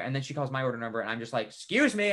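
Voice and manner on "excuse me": high-pitched put-on politeness; pointed politeness. Customer claiming own order past rude group, pointedly polite. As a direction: cut through with an exaggerated courtesy.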